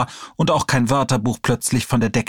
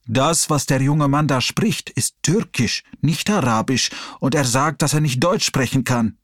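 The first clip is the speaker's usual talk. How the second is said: put-on calm old man. Old man explains calmly.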